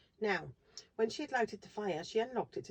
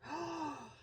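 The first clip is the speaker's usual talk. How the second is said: high, loud cry of discovery; a boy blurting out his big discovery, high and loud; excited cry; 10 semitones higher, 9 dB louder, much slower than usual. A narrator's reading. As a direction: burst out with the realisation, gasping. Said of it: "cried Peter".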